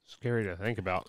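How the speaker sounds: talking around ice cubes; words muffled by ice in the mouth; mouth full. Real, not acted. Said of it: "Sorry, I got ice in my mouth".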